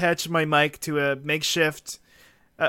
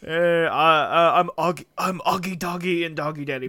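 cartoon dog voice. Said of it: "how all the Hanna-Barbera characters sound".

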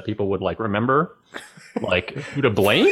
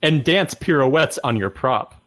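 poem recitation. Pretend. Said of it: "Percy Prune voice".

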